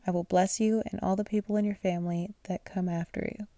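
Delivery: words stretched by a yawn. Real, not acted. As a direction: read through a yawn. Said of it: "I keep yawning".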